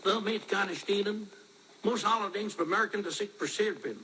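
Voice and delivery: German mangled with an American accent; broad American vowels and r's in German. Shown as a demonstration. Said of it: "how I would do it like an American".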